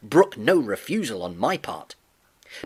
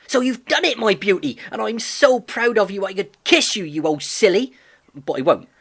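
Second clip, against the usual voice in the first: higher and louder, bursting with pride; eager young lad, beaming; Albert; 6 semitones higher, 6 dB louder than usual. A narrator's reading. Albert proud of his horse.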